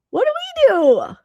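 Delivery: very high and slow, pretend despair; drawn-out mock wail. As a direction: stretch it into a whiny mock plea. Mock alarm at host's stare.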